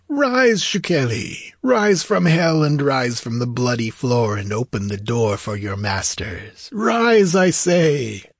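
high, ringing summons falling away and rising anew; sorcerer's imperious incantation, pitched high; commanding cry. A narrator's reading. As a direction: call the dead to their feet. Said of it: "clapped his hands sharply and cried".

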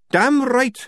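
high, loud agreement; defiant outburst. A narrator's reading. Tonker agreeing from the squad, defiant outburst. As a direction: burst out with loud conviction.

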